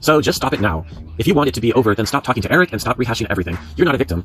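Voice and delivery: punchy, insistent read-aloud; reading a stern post. Acted. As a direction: read it out as a firm telling-off.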